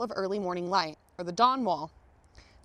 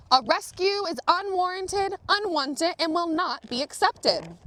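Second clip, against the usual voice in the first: formal refusal; 7 semitones higher than usual. Retold or imitated. Climbers formally refuse the rescue.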